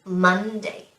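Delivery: "Monday" as MON-day; first-syllable stress. Shown as a demonstration. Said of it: "we put the stress on the first syllable".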